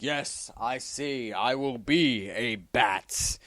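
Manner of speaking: slow, grave mock-heroic vow; solemn vow. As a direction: declare it slowly like a revelation. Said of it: "he's like".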